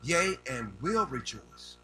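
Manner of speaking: slow, drawn-out pulpit reading; scripture reading. Real, not acted. Preacher reading scripture to his congregation, slow and declamatory. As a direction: proclaim the verse phrase by phrase, slowly.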